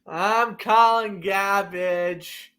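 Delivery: put-on slow, drawn-out Boston accent. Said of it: "I love breaking into my Boston accent".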